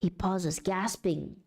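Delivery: steady storyteller voice with long pauses; game master narration. Acted. GM revealing a strange being to chat, measured narration. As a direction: unfold the strange sight piece by piece. My G M voice is always a little bit more slow and steady.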